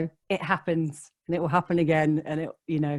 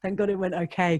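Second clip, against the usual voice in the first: sigh of relief. Retold or imitated. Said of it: "breathing this huge sigh of relief and being like".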